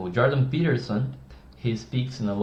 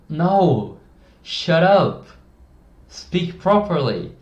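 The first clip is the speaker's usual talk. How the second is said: higher and louder, snapping at bad grammar; mock angry shout; 5 semitones higher, 5 dB louder, much slower than usual. Coach mock-scolds people who speak broken English, loud. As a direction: shout them down, half joking.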